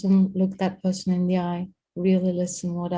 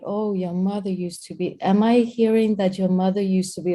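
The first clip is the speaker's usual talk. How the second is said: mocking echo. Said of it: "my mother used to be like".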